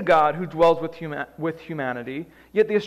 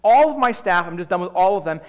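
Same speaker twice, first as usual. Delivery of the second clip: a fed-up king throws up his hands; the frustrated king dismisses his whole staff; 6 dB louder than usual. Acted.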